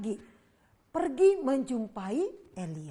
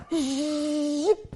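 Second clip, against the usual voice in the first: whooshing zip; 3 semitones higher, 6 dB louder than usual. Acted. Fire falls from heaven.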